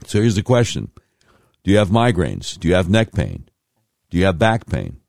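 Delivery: persuasive pitchman, slowing on the web address; radio ad read. Acted. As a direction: read it like a live radio commercial. Host reads chiropractic ad.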